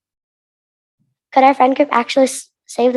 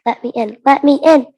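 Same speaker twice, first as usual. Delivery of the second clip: screamed plea; 3 semitones higher, 5 dB louder than usual. Acted.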